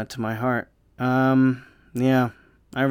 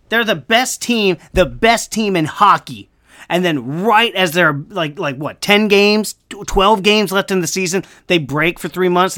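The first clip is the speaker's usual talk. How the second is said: heated rant; 4 semitones higher, 4 dB louder than usual. Real, not acted. Heated rant about Bruins choking.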